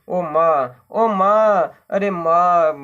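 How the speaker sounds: tearful cries of mother, the last one with a changed crying voice; clinging to mother, still sobbing; mild wailing sobs. Acted. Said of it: "बस रोती रही".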